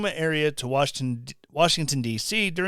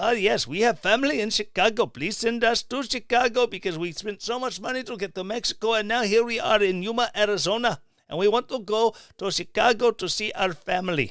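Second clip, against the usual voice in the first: speaking with an Indian accent, pitched up; 5 semitones higher than usual. Acting out someone caught sneaking across the border, in an Indian accent. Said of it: "an Indian accent".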